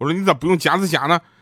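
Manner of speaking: mock indignant, loud, high-pitched voice. Retelling speaking up to the breakfast-shop owner, retelling saying it loudly. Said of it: "我当时我就大声地说".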